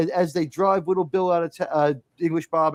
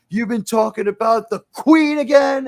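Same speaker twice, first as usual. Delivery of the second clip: higher, louder sheriff voice, lightly menacing; Gene Hackman; 7 semitones higher, 6 dB louder than usual. Retold or imitated. Sheriff about to strike English Bob, imitated challenging question. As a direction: lift it on the Queen, as a challenge. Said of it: "Gene Hackman seems like he's gonna be pretty reasonable".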